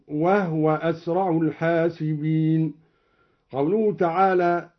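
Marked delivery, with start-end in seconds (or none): 0.1-2.7 وهو said "wahwa", no vowel on the ha; slow recitation with وهو as "wahwa"; vowelless ha. Shown as a demonstration. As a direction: close وهو straight from h to w. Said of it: "وأسكن الهاء من".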